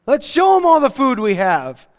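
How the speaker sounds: hammed-up scoffing sarcasm; sarcastic doubter. Doubting Thomas mocking the tiny lunch, sarcastic. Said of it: "He's probably like".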